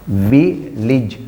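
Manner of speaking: village split as "vi... lij"; correct pronunciation, broken up. Shown as a demonstration. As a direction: say village syllable by syllable, short i in both. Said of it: "This is the correct answer".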